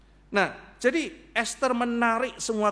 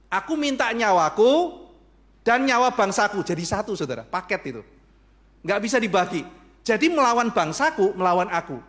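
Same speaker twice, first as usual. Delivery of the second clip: impassioned plea; 3 semitones higher, 7 dB louder than usual. Acted. Esther pleading for her life and her people. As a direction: plead with full force.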